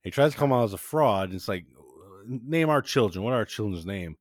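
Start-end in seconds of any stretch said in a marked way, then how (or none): 2.3-4.2 mock-angry demand, a bit louder; half-acted furious husband confronting the psychic; retold angry yell. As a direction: demand it like a mad heckler. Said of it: "Oh, he yelled at him".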